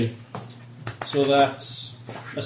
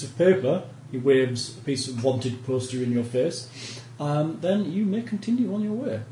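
a hint of a haughty lord giving orders; lightly voiced stern noble. NPC noble threatens arrest.

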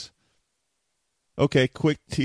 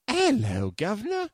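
hammed-up British accent, pitched way up; best British accent. Shown as a demonstration. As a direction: put on a mock British accent, high and playful. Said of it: "That is my best British accent".

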